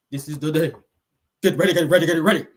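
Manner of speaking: hammed-up preacher with a very long, wobbling last word; mock preacher. Host mimics the preacher in his little chair, quavering mock preacher. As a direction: imitate a preacher holding the final vowel till it trembles. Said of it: "That's what they said".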